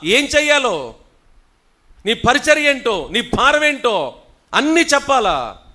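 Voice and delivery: loud, high rebuking sermon; full-force preaching. Acted. Pastor rebuking church members' ego, loud and high. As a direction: thunder at the proud congregation.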